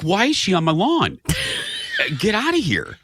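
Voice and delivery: retold outrage at a trespasser; mock mad. Homeowner grumbles at the girl on his lawn, mock mad. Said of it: "And I got mad".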